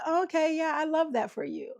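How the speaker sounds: lightly mock a snippy congratulation; a little snippy. Somebody downplaying another's news, a little snippy. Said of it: "a little snippy or a little".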